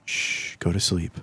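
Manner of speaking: whispering over a crib. Pretend. Putting chloroformed host to sleep.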